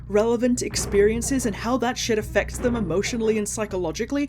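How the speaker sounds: loud, high incredulous outburst; wild unhinged ranting. Real, not acted. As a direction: rant in disbelief, voice climbing. Incredulous rant at writers.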